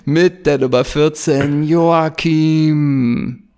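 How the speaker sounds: drawn-out stadium announcer call. Pretend. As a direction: call the player's first name like a stadium announcer. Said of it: "im Stadionsprechermanier".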